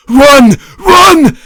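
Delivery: loud, high panicked scream. Acted. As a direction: scream at your own legs to move. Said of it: "Garfield screamed to himself".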